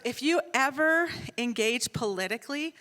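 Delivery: stern, emphatic imitated warning; really serious. Son forbidding political engagement online, stern warning. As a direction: lay down the rule firmly. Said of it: "like, really serious".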